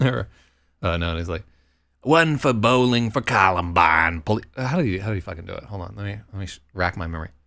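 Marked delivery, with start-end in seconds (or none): 2.0-4.4 put-on thick, over-the-top Yankee American accent. Telling a friend how someone teased him at a store, acting out the man's words; exaggerated american accent. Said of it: "in this like exaggerated American accent".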